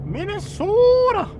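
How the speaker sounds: put-on high, loud, drawn-out Minnesota accent. Mocking Minnesotans, long high Minnesota accent. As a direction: belt it out with a huge Minnesotan O. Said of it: "like, the worst accent ever".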